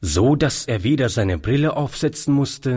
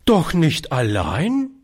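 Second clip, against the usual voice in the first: higher, appalled question; old lady aghast, voice swooping up at the end; entsetzt; 5 semitones higher than usual. Acted. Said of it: "rief das alte Fräulein entsetzt". (entsetzte Nachfrage)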